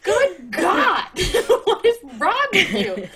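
giggling disbelief; laughing. Real, not acted. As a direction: laugh through the exasperated question. Cracking up at the character.

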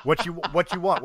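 ordinary talk

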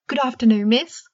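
high, loud squeaky house-elf greeting; a house elf greets a startled girl, high and squeaky. Acted. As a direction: squeak it out like a tiny old elf. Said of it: "a squeaky voice exclaimed".

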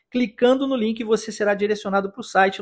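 usual speaking voice

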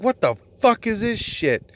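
high, incredulous outburst at a bad film; disgusted moviegoer. Moviegoer reacting to a bad film, high and incredulous. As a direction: throw it up high in disbelief. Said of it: "you're like".

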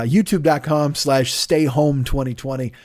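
S's whistle through a numb mouth; whistling S sounds. Real, not acted. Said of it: "you get whistling out of my mouth because my mouth doesn't work any longer".

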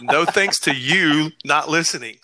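shouted through laughter; laughing jab. Real, not acted. Teasing his co-host, shouting through laughter.

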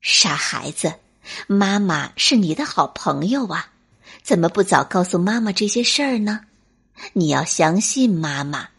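低声温柔地劝; 像妈妈一样耐心开导; 认真地安慰. Acted. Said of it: "认真地说". (认真温柔的妈妈)

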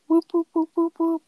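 high whooping cheer; excited whooping. Real, not acted. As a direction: whoop it up like a hype crowd.

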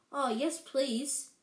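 panting. Acted. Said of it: "Harry panted".

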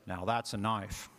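put-on slow, drawn-out Australian accent; Aussie accent. Crocodile Dundee showing off his big knife, slow Aussie accent. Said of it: "It's my Aussie accent".

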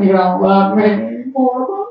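half-sung, whining mock crying; hammed-up childish wail to mama; mock bawling. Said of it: "sat there bawling, squalling, crying".

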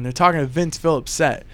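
ordinary delivery

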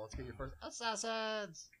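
put-on high, slow west of Ireland accent; a slow, high west of Ireland call. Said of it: "That's how you get into the mayo voice".

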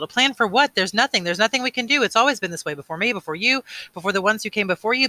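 high, loud, agitated objection; hopeless protest. A narrator's reading. Boy seeing no way out, agitated hopeless protest.

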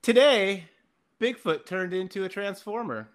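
put-on reading a childhood story aloud; story recital. Reading his childhood Bigfoot story to the hosts, a mock recital. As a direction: recite it like a kid's tale. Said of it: "this is a good one".

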